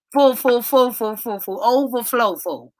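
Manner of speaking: rising chant of full to overflow; building repetition. Real, not acted. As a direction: pile the fulls up to overflow. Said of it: "I mean, full".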